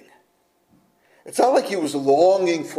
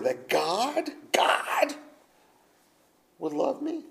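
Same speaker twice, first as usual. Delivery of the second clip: breathless tearful whisper of wonder; whispered, overcome with wonder; awed whisper; 5 semitones higher, 8 dB quieter, slower than usual. Real, not acted. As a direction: hush it, almost crying in awe. Awed whisper about God's love.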